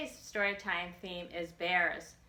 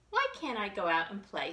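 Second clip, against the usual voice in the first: pleading bunny; 2 semitones higher, faster than usual. Acted. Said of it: "he pleaded".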